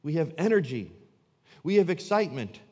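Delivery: hammed-up indignation at the suggestion; indignant churchgoer. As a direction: play the offended member defending their church. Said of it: "indignant and say".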